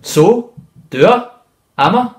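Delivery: high, loud short retorts; defiant. Acted. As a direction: challenge him with each question. Tomo answers back defiantly.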